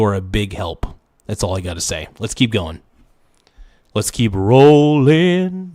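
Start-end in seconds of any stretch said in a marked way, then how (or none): 3.9-5.7 slow, booming announcer call. Pretend. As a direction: boom it like an arena host. Hyping stream like game announcer.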